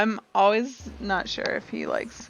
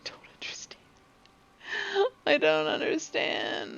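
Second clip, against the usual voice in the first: whispering; 8 semitones higher, 3 dB quieter than usual. Real, not acted. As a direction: murmur it under your breath. Unvoiced confused murmur.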